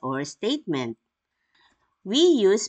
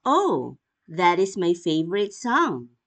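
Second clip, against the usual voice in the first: delighted exclamation. Shown as a demonstration. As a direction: greet the song with delight. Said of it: "Notice the proper use".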